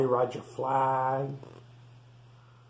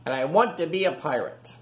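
put-on eager young pig; 3 semitones higher than usual. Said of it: "said Rufus".

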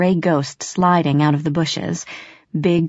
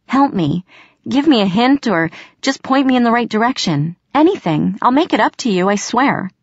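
raised, urgent pleading; begging; 6 semitones higher than usual. Acted. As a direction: beg for help breathlessly. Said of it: "I begged".

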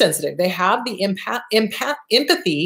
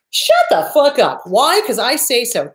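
"Shut the fuck up" said louder and higher, commanding; firm shout; 4 semitones higher, 3 dB louder than usual. Shown as a demonstration. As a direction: shout down the inner critic with authority. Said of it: "Do you see how I did that?".

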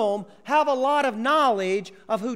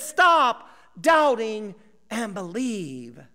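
1 firm command; 6 dB louder, slower than usual. Acted. Jesus's climactic command.

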